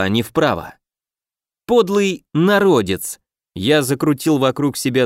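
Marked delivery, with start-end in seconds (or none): 1.7-3.2 angry villain. Acted. Insult in fight.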